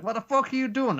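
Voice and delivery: high, loud what the fuck; shocked yell. Retold or imitated. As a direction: snap at the captor in disbelief. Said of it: "He's like".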